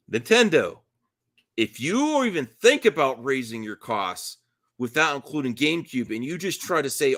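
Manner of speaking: shouted wrestler promo rant; wrestling promo. Acted. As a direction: call out Nintendo like a pro wrestler. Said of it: "This is like a wrestling promo".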